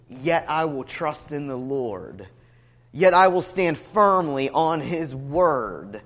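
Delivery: slow, low, resolute declaration; firm resolve. Retold or imitated. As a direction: state it slowly, with settled conviction. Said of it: "a firm resolve".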